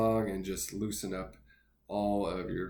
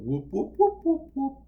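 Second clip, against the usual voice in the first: high-pitched whoop; 6 dB louder than usual. Shown as a demonstration. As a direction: whoop whoop in a much higher, louder head voice. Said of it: "See how it's higher pitched?".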